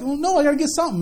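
lightly mimicked childish insistence; indignant child. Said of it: "gave me that sideways look like".

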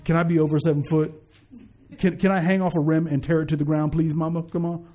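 lightly voiced low, casual request to Mom; mock-plead with Mom in a low, even voice; unborn baby asking. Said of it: "he wasn't in his mother's uterus like".

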